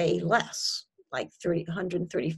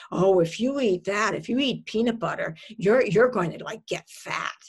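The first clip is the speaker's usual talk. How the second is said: lightly acted nagging inner critic; mildly hammed-up scaremongering; eating-disorder voice. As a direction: warn like a fretful voice on the shoulder. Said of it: "what's your eating disorder voicing".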